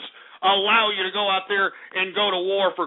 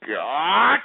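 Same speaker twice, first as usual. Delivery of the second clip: anguished furious scream; 10 semitones higher, much slower than usual. Real, not acted. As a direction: scream it as the voice cracks. Host explodes at prank callers.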